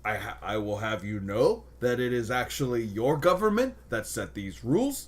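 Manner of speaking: a Canadian border guard losing it, high and loud; stern Canadian accent, laughing through it; angry Canadian accent. Retold or imitated. Guard finally snaps at a complaining traveler, in a Canadian accent, loud and high. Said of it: "I can't do the Canadian accent while angry".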